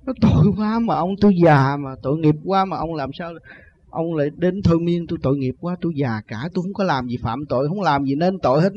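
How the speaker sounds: mild imitation of an old man begging; lightly mimicked appeal for pity; retold pleading. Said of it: "năn nỉ hết sức vậy đó".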